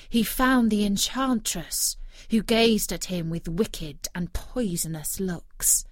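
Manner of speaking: plain reading voice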